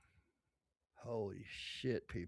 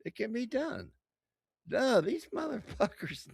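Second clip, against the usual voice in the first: loud, high, furious outburst; angry rant; 11 semitones higher, 9 dB louder than usual. Real, not acted. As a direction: yell it in outrage. Outraged rant about Iran.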